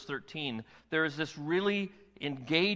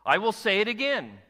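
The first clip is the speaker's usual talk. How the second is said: ringing Paul quote; 6 semitones higher, 7 dB louder than usual. Retold or imitated. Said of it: "He says".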